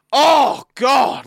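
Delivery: loud high exasperated groan; exasperated oh God. Retold or imitated. Impatient bloke giving up on the worker, loud high exasperated groan. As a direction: blow up like a fed-up shopper. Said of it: "like that".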